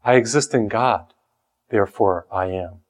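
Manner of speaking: quiet, settled declaration of faith; soft sincere confession. Shown as a demonstration. Preacher's quiet answer to Descartes. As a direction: say it low and sure, like a creed. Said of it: "Well, that was the great statement of philosophy".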